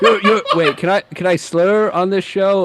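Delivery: laughing through the words; can barely get it out for laughing; laughing quote. Retold or imitated. Quoting while laughing.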